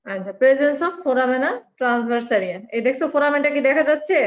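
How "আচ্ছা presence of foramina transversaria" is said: slow dictation. Shown as a demonstration. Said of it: "তোমাদেরকে বলছি খাতা কলম রাখার জন্য".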